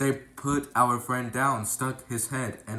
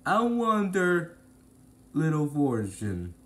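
nasty bandit; 4 semitones higher, 4 dB louder than usual. Acted. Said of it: "the nasty one said".

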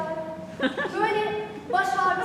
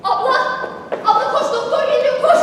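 excited calling out; 3 semitones higher, 6 dB louder than usual. Acted. Calling sister to see doctor.

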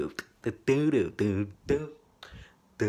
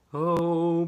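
dramatic voice; 7 semitones higher, 5 dB louder, much slower than usual. Pretend. Dramatic repeat of believe me.

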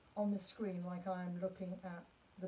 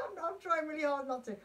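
higher, laughing admission; 6 semitones higher, 7 dB louder than usual. Real, not acted. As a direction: say it through a burst of laughter. Laughs at urge to sing.

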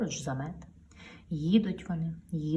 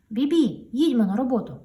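louder, higher cheerful truck; 6 semitones higher, 6 dB louder than usual. Acted. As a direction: call the trailer to work. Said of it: "говорить ваговіз". (бадьорий голос ваговоза)

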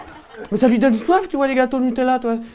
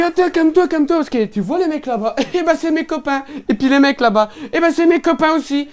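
higher, lightly voiced menacing thug; calm him down, then threaten; smug thug; 5 semitones higher than usual. Thug warns the narrator about his friends, smug.

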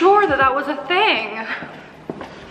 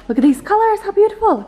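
excited; 9 semitones higher, 5 dB louder than usual. Real, not acted. Admiring new makeup palette.

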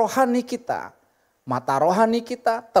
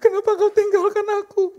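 mock wailing; 13 semitones higher than usual. Preacher imitating a bereaved spouse at the funeral home, mock wailing. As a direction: wail theatrically, far above the usual pitch. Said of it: "Jangan teriak-teriak".

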